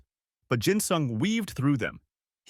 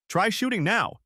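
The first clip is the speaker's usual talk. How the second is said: yelled; 10 semitones higher than usual. Acted. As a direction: threaten them with the hostage, shouting. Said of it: "he yelled".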